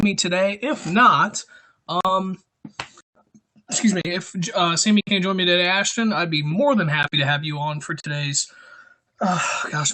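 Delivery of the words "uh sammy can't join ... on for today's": breathless, catching breath between words. Real, not acted. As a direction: talk while winded. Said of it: "I'm out of breath".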